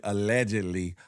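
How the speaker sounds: deep deadpan allegedly; deep mock disclaimer. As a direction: drop the voice for a joke disclaimer. Comic disclaimer.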